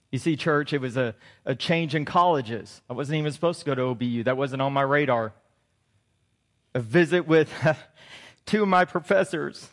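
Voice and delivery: low, soft, choked-up voice; fighting back tears while telling it; quiet emotion, voice sinking low; getting emotional. Real, not acted. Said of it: "Sorry, I'm getting emotional".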